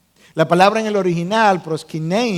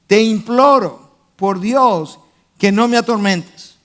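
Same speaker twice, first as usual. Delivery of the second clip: retold plea in a slightly raised voice; mild retold cry; 3 dB louder than usual. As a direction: implore with measured force, phrase by phrase. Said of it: "gritó a gran voz".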